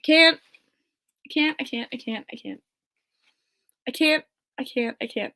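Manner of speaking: breathless repeated can't; too overcome to finish; overwhelmed. Real, not acted. Fan overwhelmed after her hero's note, breathless. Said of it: "I'm, like, shaking".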